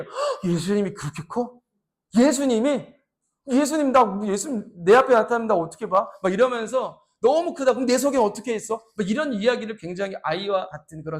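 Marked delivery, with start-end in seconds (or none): 0.0-8.8 put-on child's amazement. Child voiced in wonder.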